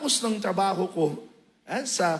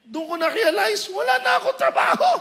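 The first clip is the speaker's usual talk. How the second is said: much higher, louder, hammed-up sung wail; mock wailing; 11 semitones higher, 6 dB louder than usual. To the congregation, a hammed-up wail about having no job. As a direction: wail it like a comic lament. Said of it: "bakit ako umiiyak".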